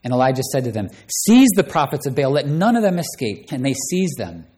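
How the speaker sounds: preacher reading the Bible aloud with dramatic swings in voice; bold, theatrical Bible reading; dramatic scripture reading. Acted. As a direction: read the story like a pulpit drama. Preacher reads 1 Kings 18 aloud.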